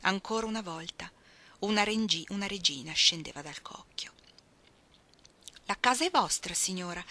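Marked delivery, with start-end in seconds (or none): 5.7-7.0 bowing exclamation. Acted. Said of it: "esclamò inchinandosi profondamente".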